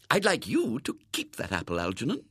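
kindly lady granting a gift; generous. A narrator's reading. Lady lets the boy keep the apple, generously. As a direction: offer it generously. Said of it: "she said generously".

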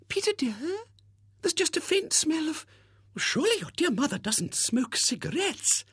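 high, fluttery, gushing lady's voice; gushing spinster. Acted. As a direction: coo it like a sentimental old maid. Miss Rubina, gushing spinster.

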